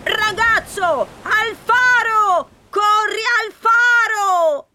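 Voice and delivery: distant call carried on the wind; gusting windy whisper. Acted. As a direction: call out faintly through the storm. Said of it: "una flebile voce portata dal vento".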